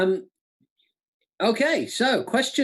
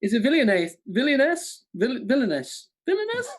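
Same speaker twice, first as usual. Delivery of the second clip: wavering attempt at a German accent; testing a word in mock German; 4 semitones higher than usual. Host struggling through the question, unsteady German accent. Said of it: "in a German accent".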